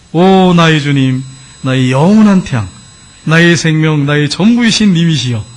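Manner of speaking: impassioned, drawn-out devotional declamation; poem recital. Retold or imitated. Converted husband reciting his poem to the Lord, fervent declamation. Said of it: "그러더니 이분이 시를 썼어요".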